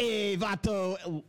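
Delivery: put-on slow, drawn-out nineties LA Hispanic accent; imitating an actor's LA Hispanic accent. Friend mimics Batista's movie role in a slow LA Hispanic accent. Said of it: "the nineties L A Hispanic accent".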